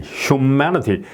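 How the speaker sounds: humanity said slowly with a stretched m; slow demo. Shown as a demonstration. Teacher slowly modelling humanity. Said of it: "실러블을 이렇게 따로".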